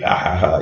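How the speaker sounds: light, half-hearted "ha, ha, ha"; imitated laugh. Husband recalls laughing on the first date, imitated laugh. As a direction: mimic your own big laugh, lightly. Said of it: "I had a laugh".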